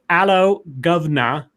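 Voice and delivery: British accent broken into separate words; mock British accent. Shown as a demonstration. Host shows co-host how they say it, British accent. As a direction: demonstrate a joke British accent piece by piece. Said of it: "this is how I s-, I say".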